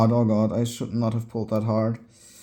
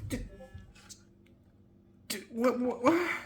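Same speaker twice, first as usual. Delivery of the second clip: surprised; 10 semitones higher, 8 dB quieter than usual. Real, not acted. Still stunned.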